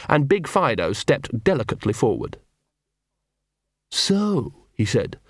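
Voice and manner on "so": high-pitched, drawn-out villain dog; menacing poodle leader. A narrator's reading. Poodle villain confronts intruder.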